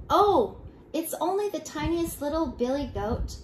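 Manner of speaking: high little billy goat voice; very small voice. A narrator's reading. Youngest goat answers the troll, in a small high voice. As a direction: pipe up as the tiniest goat. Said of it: "in his very small voice".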